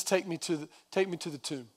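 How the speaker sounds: soft, low retold reply; subdued request. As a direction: say it quietly, with little force.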